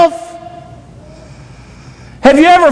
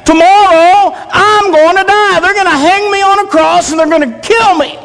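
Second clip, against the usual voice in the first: higher, pressing words to sleepy friends; urgent Jesus; 4 semitones higher than usual. Retold or imitated. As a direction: plead with them to understand, pitched higher. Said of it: "he's saying".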